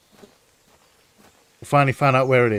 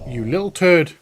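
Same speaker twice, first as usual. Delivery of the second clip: exasperated shout; 4 semitones higher, 5 dB louder than usual. Real, not acted. Annoyed at child character.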